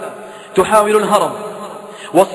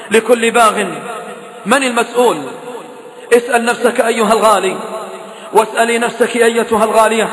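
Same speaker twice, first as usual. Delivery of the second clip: raised, insistent preacher's rebuke; fiery preaching; 3 semitones higher than usual. Acted. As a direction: drive the blame home to the listeners.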